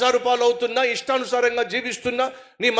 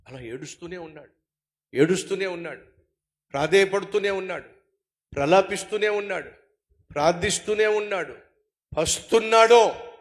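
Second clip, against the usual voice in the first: much softer and lower, slowing at the end; hushed grief; 5 semitones lower, 4 dB quieter than usual. Real, not acted. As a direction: let the voice sink as if weeping. Describing David weeping.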